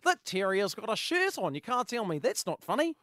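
high New Zealand narrator voice; Kiwi accent. Retold or imitated. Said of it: "the narrator has a Kiwi accent".

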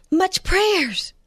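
hint of a Jamaican accent, proclaiming. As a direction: imitate an elderly Jamaican lady exclaiming. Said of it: "this amazing Jamaican accent".

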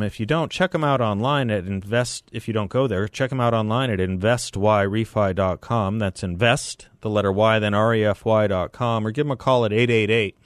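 upbeat radio ad read. Acted. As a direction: sell it like a live sponsor spot. Host reads sponsor ad.

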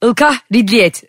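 slow, word said in reverse; backwards speech. Shown as a demonstration. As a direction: read it backwards, slowly. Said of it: "tersten okurum".

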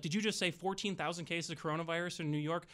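mildly panicked caller, quick and questioning; retold panic. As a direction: rush it like an alarmed listener, lightly imitated. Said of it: "She was panicked".

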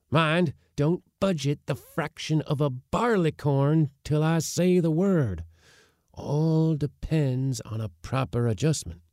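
put-on high, eager old man voice; flushed with anticipation; excited old uncle. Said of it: "all animation and flushed with the foretaste".

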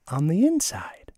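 whispered confidence. Retold or imitated. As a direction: confide it in a hush like a secret. Mother's secret, whispered aside.

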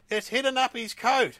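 high, slow squawky parrot tattling. Acted. Parrot exposing the magician's trick to the crowd, high voice. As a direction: pitch it up like a parrot spilling the secret.

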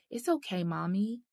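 put-on a light touch of a small child reassuring; comforting child.

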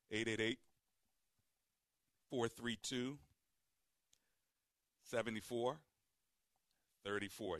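spaced out slowly with long pauses; slow dictation. Real, not acted. Host giving listeners the phone number, slowly for writing down. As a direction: read out slowly, group by group. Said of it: "Did I say it slow enough".

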